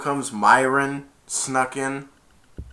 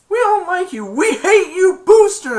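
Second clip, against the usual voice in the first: very high, loud mock yelling; high-pitched hostile jeer; jeering crowd; 11 dB louder than usual. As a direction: shout it like an angry mob. Acting crowd turning on Booster.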